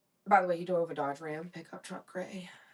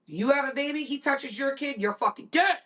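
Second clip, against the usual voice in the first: raised, punchy protective threat; mock menacing threat; 4 semitones higher, 4 dB louder than usual. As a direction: threaten like a protective mother, punching the key words. Fierce protective mother's threat.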